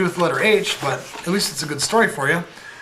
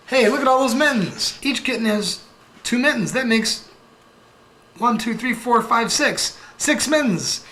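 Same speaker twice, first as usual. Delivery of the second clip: Count character voice; 5 semitones higher than usual. Acted. Voices the Count reading mittens.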